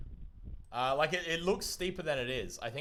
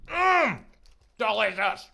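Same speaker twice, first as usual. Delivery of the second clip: delighted; 8 semitones higher, 9 dB louder, slower than usual. Real, not acted. Bite of ice cream.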